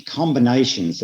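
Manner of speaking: combinations said as a deliberate key word; emphasis on combinations. Real, not acted. Presenter underlining a key word for the audience, stressing combinations. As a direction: stress the word combinations, set apart by itself. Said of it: "I stress that word combinations".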